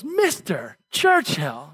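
drawn-out, mock-offended address; indignant. Woman rebuking Churchill for his indecent offer, indignant. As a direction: slowly draw out the name in retold indignation. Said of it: "All indignant".

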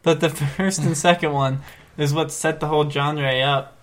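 genre said like John Ray; odd pronunciation of genre. Real, not acted. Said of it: "it's genre, it's".

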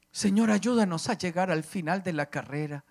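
earnest spoken prayer to God; fervent prayer. Real, not acted. Father blessing his children and grandchildren before God, fervent prayer. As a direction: pray aloud, rising on the pleas. Leads a prayer over music.

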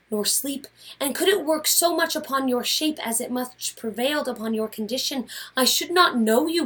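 earnest wife listing his behaviour; Portia pleading. Acted. Portia pressing her husband Brutus, understated. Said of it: "here's the scene".

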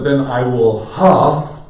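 slow, loud wolf threat. Acted. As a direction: stretch it out like the wolf. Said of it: "Don't huff too loud".

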